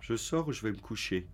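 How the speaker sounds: whispered sleepy aside. Real, not acted. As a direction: whisper it to yourself.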